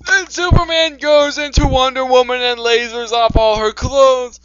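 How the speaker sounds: loud, high mock-epic narration; dramatic story reading.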